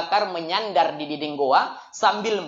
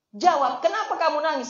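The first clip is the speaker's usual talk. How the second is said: pressing question; 7 semitones higher than usual. Acted. Prophet presses Abu Bakar.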